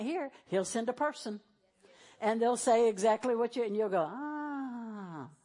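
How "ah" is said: soft, long-drawn "aah"; dawning-realization "ah". Acted. Listener finally getting God's message, soft acted "aah" of realization. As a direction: let out a slow ah of understanding.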